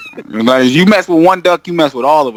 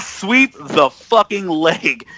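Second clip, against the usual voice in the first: slow menacing coach order; much slower than usual. Retold or imitated. Coach telling his players to sweep the leg, slow and menacing. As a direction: drag out each word like a villain coach. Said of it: "he pulled the boys aside and was like".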